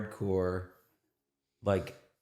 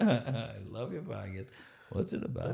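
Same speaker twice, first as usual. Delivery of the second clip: put-on Yiddish accent; 3 semitones higher, 5 dB quieter than usual. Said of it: "Yiddish accent".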